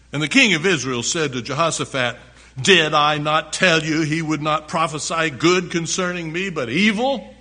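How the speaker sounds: loud reading rising into a complaint; preacher voicing a put-out king; scripture reading. A narrator's reading. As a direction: read it out, lifting the king's question at the end. Reads scripture aloud, forcefully.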